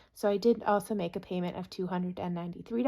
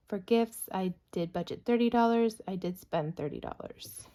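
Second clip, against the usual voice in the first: talking fast and short of breath; rushing the words, breathless. Real, not acted. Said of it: "I'm out of breath".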